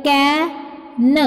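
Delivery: कैन with the vowel stretched; teacher drawing out the middle of कैन; long vowel sound. Shown as a demonstration. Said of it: "long sound के लिए".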